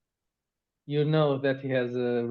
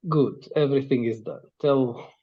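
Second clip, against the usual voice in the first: put-on a light Russian accent on a big bulky guy. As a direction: thug handing over the crate with a hint of Russian. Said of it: "I don't know why I'm doing Russian accent".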